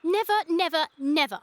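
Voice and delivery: loud, hammering each never; emphatic refusal. Acted. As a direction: stamp it out like a petulant ward. She insists he shake hands.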